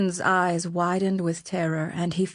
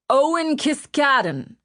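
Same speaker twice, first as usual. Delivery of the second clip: sharp snarl, higher and louder; 7 semitones higher, 4 dB louder than usual. A narrator's reading. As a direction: spit the name out in anger. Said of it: "Ratcliffe snarled".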